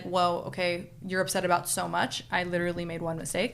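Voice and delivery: defensive partner. Retold or imitated. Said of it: "your partner might be like".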